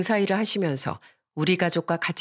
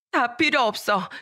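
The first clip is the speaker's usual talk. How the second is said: put-on higher-pitched child's fed-up snapping; resentful outburst; 5 semitones higher than usual. Daughter brushes off her mother's apology, high resentful protest. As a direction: reject the apology bitterly. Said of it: "엄마를 원망하며 말했어요".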